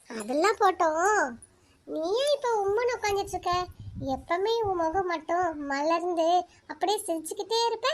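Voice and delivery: put-on a lonely girl confiding her sorrow to the moon; soft inner talk. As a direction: talk gently to the moon in your head. Girl talks softly to the moon.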